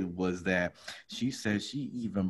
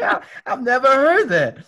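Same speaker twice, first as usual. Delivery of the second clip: laughing; 14 semitones higher, 8 dB louder than usual. Real, not acted. Laughing at her profile line.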